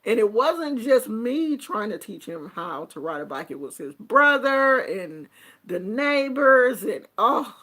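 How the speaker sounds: ordinary talk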